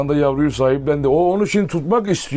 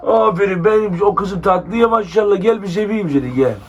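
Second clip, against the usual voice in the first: laughing praise; 2 semitones higher than usual. Real, not acted. Praising the dog affectionately.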